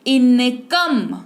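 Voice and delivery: इनकम said slowly, opening on short "i"; slow model of इनकम with a clear "i"; short "i" sound. Shown as a demonstration. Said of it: "ई सुनाई दे रहा है आपको".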